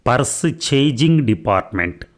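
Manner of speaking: "పర్స్ చేజింగ్" split into two words, purse then chasing; mispronounced purchasing. Acted. Thief mangling the English word "పర్స్ చేజింగ్" as purse chasing. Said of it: "English సరిగా పలకడం రాదా".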